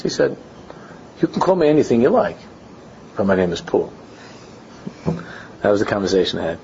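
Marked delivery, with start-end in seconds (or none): 1.2-3.9 Paul's dismissive reply. Retold or imitated. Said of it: "The way he said it".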